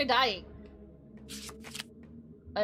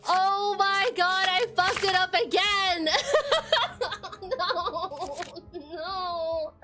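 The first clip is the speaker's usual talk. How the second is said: laughing dismay; 3 semitones higher, much slower than usual. Real, not acted. Gamer frustration with laugh.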